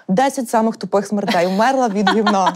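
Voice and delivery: slow mock announcer read that breaks into laughter; laughing joke title. Real, not acted. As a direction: read it like a clickbait title, cracking up. Jokes about a dumb-death video title. (повільно, як заголовок відео, зі сміхом)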